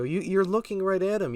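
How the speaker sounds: high-pitched exasperated comeback; incredulous retort. Retold or imitated. Teen to cop asking his eye color, exasperated. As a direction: retell an incredulous protest, pitched well up. Retorting to cop's silly question.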